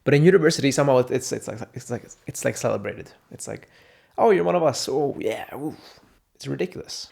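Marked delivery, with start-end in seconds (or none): 4.2-5.7 higher, louder mock cheer; mock welcoming peer. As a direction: welcome a newcomer sarcastically. Mocking university peers.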